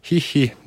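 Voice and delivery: put-on a small child's giggle. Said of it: "Jyri kikattaa". (kevyt kikatus)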